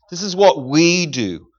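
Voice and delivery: This is what we do, drawn out slowly with weight on "what"; slow down and lean on "what"; slow emphatic repeat. Shown as a demonstration. Preacher repeats key phrase slowly.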